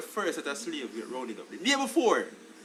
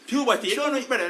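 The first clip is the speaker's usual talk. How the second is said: bursting into a laugh, higher and louder; 6 semitones higher, 8 dB louder, faster than usual. Real, not acted. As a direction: laugh the word out as the joke lands. Laughs at friend's joke.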